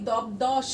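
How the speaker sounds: দবদশ with the ব sounded as b; wrong spelling pronunciation. Shown as a demonstration. Teacher shows the wrong way: দবদশ with a clear b. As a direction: say দবদশ pronouncing every letter. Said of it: "আমরা কি কখনো বলি দবদশ".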